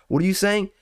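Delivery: incredulous. Real, not acted. Incredulous at the lady.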